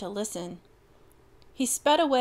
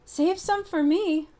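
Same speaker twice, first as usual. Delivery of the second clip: high, loud yelp; pleading yelp for cake; eager dog yelping; 9 semitones higher, 7 dB louder than usual. Acted. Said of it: "Bronco yelped".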